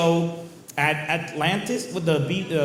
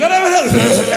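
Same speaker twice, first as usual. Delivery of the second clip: higher, louder, hammed-up gasping panic; mock panic; 9 semitones higher, 8 dB louder than usual. Comic acting out an asthma attack, mock panicked. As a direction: pretend you can't breathe.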